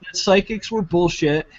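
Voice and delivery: mocking whiny critic.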